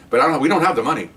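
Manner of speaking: dry sarcastic jab; a deadpan, pointed reply. Retold or imitated. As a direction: say it sarcastically to the lieutenant. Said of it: "I was being sarcastic now".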